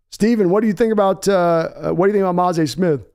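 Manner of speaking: folksy boss asking his son about a pick; Jerry Jones. Pretend. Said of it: "in character".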